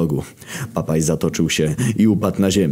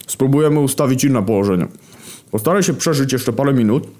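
calling out; 7 semitones higher than usual. Acted. Hunger calls through the portal.

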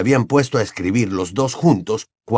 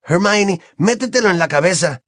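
put-on a lightly raised boyish voice; Ron's voice; 8 semitones higher than usual. A narrator's reading. Ron answers Hermione in a light boyish voice. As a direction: play the cheeky teenage boy.

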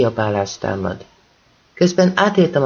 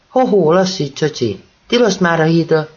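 raised warning shout; policeman's shout; 4 semitones higher than usual. Acted. Policeman shouting after Kal to stop. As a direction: yell after him to stop. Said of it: "Kiabálja utánam".

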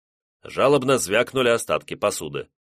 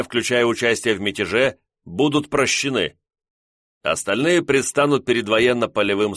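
firm, raised commanding voice; stern officer proclamation; 3 semitones higher, 3 dB louder than usual. Acted. Officer announces ultimatum to mutineers.

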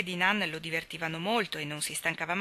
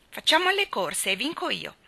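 excited, higher-pitched challenge; child's cry; 5 semitones higher, 4 dB louder than usual. A narrator's reading. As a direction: call out a race like an eager child. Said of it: "gridò Nan". (grido infantile, acuto ed eccitato)

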